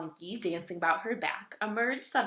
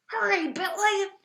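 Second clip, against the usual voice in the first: urgent pelican; 14 semitones higher, 7 dB louder than usual. A narrator's reading. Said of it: "whispered the pelican".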